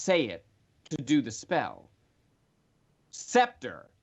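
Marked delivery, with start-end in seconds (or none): 3.1-3.9 a firm called-out command word; loudly called. Acted. Vushati speaking the spell's command word, called loudly. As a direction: call the word out loud to cast. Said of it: "she says loudly".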